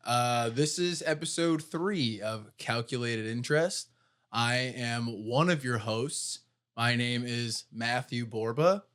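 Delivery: slow, stiff robot voice. Acted. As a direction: read the intro like a robot. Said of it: "should I talk like a robot too".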